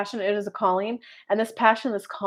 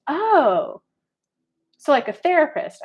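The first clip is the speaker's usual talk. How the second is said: mom realizing; 5 semitones higher, 4 dB louder, slower than usual. Retold or imitated.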